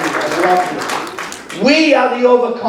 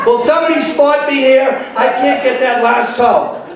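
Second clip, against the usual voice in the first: straining; 7 semitones higher than usual. Pretend. Straining in awkward positions.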